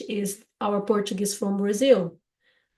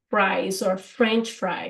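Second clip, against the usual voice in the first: teaching the word; slower than usual. Shown as a demonstration. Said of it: "we say".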